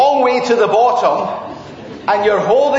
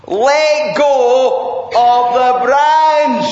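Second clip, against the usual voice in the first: commanding voice; 3 semitones higher, much slower than usual. Acted. Lord repeats his command.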